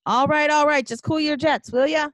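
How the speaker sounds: loud, high, fed-up retort; exasperated waiter. Acted.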